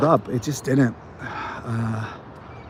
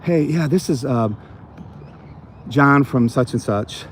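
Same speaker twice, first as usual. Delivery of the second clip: friendly cold-call opener; 2 semitones higher than usual. Shown as a demonstration. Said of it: "say I call you".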